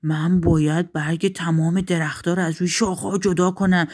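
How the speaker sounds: lightly voiced wind with long whooshing blows; blowing cold wind. Cold wind threatens to strip the trees, blustering. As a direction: blow hard before and after speaking.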